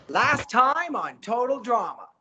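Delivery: high, drawn-out pushed intro without volume; compressed host intro. Shown as a demonstration. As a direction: keep it quiet but push it forward. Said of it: "keep it quiet, but you're pushing it".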